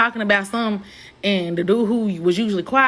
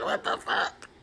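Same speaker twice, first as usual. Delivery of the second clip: whispered disbelief; whispered what the fuck; shocked whisper; 10 dB quieter than usual. Retold or imitated. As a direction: breathe it out stunned. Her shocked reaction retold.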